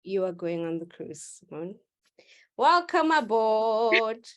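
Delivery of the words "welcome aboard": slow, louder ship-steward welcome; mock welcome. Teacher welcoming Simone aboard in a mock host voice. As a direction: roll it out like a cruise host. Welcoming student onto the cruise.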